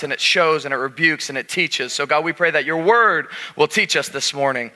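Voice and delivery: earnest pulpit prayer; opening prayer. Acted. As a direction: pray it over the room with conviction. Pastor prays before the sermon.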